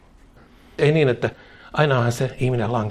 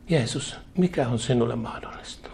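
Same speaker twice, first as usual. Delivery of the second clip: quieter voice; 7 dB quieter than usual. Retold or imitated. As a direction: ask Jesus gently, with a humbled heart. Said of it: "kysyt hiljaisemmalla äänellä".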